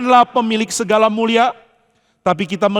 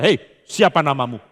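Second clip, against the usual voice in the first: a hint of a menacing bruiser, pitched lower; lightly voiced tough guy demanding a name; intimidating tough guy; 5 semitones lower than usual. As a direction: growl it lightly like a bully. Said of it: "kalau bicara sangat intimidatif".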